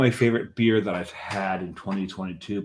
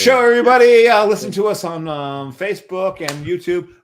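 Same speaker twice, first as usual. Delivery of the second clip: high, bright fake outro voice; mock host sign-off; 11 semitones higher, 10 dB louder than usual. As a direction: wrap up like a cheesy TV host.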